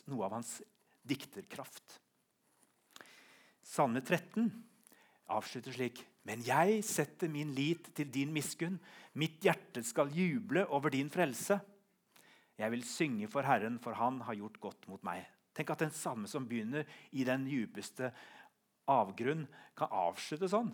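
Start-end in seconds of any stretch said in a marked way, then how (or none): 6.2-15.2 slow, drawn-out declaration of trust; emphatic psalm reading. Acted. Preacher reading the psalm's ending to the congregation, emphatic. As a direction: read the psalm out firmly and slowly.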